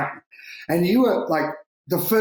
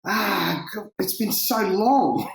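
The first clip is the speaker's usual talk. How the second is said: choked up; 6 semitones higher, slower than usual. Real, not acted. Choked up recalling long wait.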